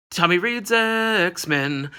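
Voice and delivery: slow, drawn-out show-title announcement; announcer voice. Acted. Intro title said twice.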